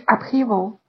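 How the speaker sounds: "upheaval" with the stress on "hea", not on "up"; word stress. Shown as a demonstration. Teacher shows students where "upheaval" is stressed. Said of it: "需要注意这两个单词的重音呢，都不是在一开头".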